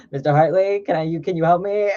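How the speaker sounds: lightly put-on student asking for help; imitated student.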